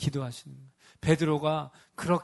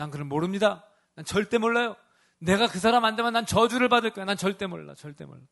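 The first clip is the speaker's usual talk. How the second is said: denying Peter; 3 semitones higher, 3 dB louder than usual. Acted. Peter denies Jesus in sermon.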